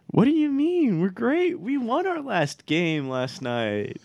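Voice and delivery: high, loud, slow mock boast; sarcastic. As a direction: oversell the team's greatness. Sarcastic brag after bad game.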